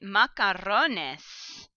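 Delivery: macarrones drawn out slowly, every syllable clear; slow teaching model. Shown as a demonstration. Teacher pointing out the cognate, saying it very slowly. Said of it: "even part of this is a cognate".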